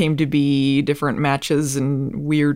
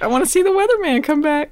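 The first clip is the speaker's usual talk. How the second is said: higher, faster eager repeat; excited wish; 12 semitones higher, faster than usual. Real, not acted. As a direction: say it again, now bubbling with excitement. Repeats wish with more energy.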